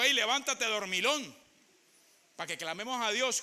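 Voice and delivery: loud shout to a sleeping man; captain's wake-up shout. Retold or imitated. Ship captain shouting at sleeping Jonah to get up. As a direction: yell him awake, sharp and high.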